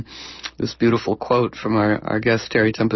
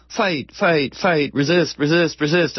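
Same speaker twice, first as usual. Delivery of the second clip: repeated rallying cry, raised pitch, mock yell; mock group yelling; 4 semitones higher than usual. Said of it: "they were all yelling".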